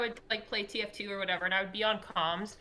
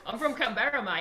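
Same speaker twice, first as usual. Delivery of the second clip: laughing, slightly raised Australian accent; 3 semitones higher than usual. Shown as a demonstration. Gamer answering where she's from, Australian accent. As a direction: play the Aussie through a laugh. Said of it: "Where are you from?".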